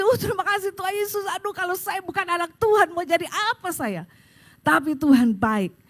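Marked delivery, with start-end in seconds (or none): 0.0-4.0 higher, lightly acted crying plea; mild mock-weeping thanksgiving; retold tearful prayer. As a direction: imitate being overcome with gratitude to God. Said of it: "Saya nangis".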